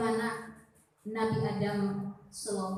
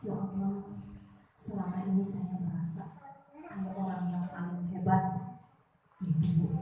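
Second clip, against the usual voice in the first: humble night prayer; 2 semitones lower than usual. Retold or imitated. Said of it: "Rendahkan diri kita pada Allah di tengah malam".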